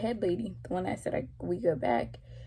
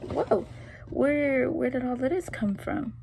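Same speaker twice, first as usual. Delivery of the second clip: retold surprise; 4 semitones higher than usual.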